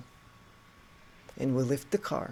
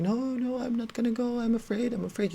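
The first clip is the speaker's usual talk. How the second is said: very high, panicky wail, imitated; mock screaming; 9 semitones higher than usual. Friend refusing to fetch help, mock screaming. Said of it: "She starts screaming".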